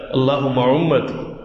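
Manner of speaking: drawn-out plea to God at full voice; slow, earnest supplication; slow pleading prayer. Acted. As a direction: stretch each word out as a slow heartfelt appeal. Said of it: "اور ساتھ کیا کہہ رہے ہیں؟".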